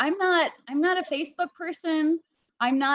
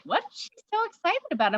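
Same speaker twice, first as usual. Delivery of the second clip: puzzled; 5 semitones higher, faster than usual. Retold or imitated. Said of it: "And I'm like".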